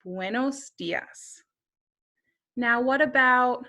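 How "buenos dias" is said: slow, soft "Buenos dias" given as the answer; slow model answer; slow quiz answer. Shown as a demonstration. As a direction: reveal "Buenos dias" gently and slowly. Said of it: "or you could just say".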